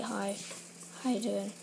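low, understated greeting; demonstrating own boring voice. Shown as a demonstration. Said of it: "I speak like".

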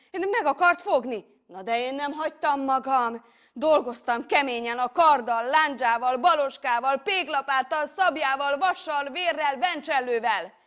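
high, loud, driving list; battle frenzy. A narrator's reading. Hero recounting hard fighting with every weapon, frenzied. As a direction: hammer out each weapon like a blow.

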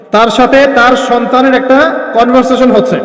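slowed right down for the listeners; slow, emphatic repeat. Real, not acted. Preacher tells listeners to listen well, slow and emphatic. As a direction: repeat it slowly so it sinks in. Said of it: "এটা ভালো করে শোনেন".

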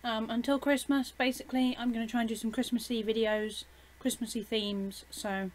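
talking through a mouthful of chocolate; chewing chocolate while talking; mouth full. Real, not acted. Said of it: "Sorry, I got chocolate in my mouth".

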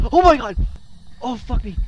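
loud, high shriek easing slightly; terrified scream. Real, not acted. Player alone with the ghost, terrified scream. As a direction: scream out in real fright. Jump scare in horror game.

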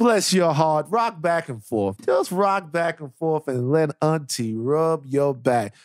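slow, rocking auntie voice; comforting auntie. Pretend. Auntie rocking a worried listener, soothing. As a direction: croon it slowly, soothing a child. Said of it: "like, an auntie one".

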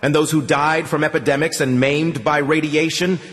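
put-on old priest's swelling menacing rant; menacing, building. A narrator's reading. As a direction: build into a prophet's thunder. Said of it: "more convincing and menacing than the last".

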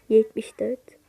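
whispered, unvoiced, half to herself. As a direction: hush it under the breath. Sayıları tekrar fısıldıyor. (fısıltıyla)

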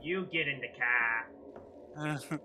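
loud mock retort; loud comeback. Streamer shouting back at the clip. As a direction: fire it back.

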